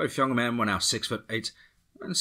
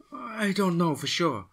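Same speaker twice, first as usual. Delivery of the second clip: put-on higher, slow and hesitant in a Latin accent; unsure woman; 11 semitones higher, slower than usual. A narrator's reading. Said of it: "she said".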